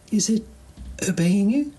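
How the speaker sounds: stunned alien question; amazed alien. Acted. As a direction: alien asking the handyman, high and stunned.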